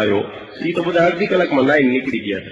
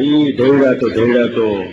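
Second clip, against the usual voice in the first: imitating stammer; 2 semitones lower, slower than usual. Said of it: "જીભે તોતડા છે".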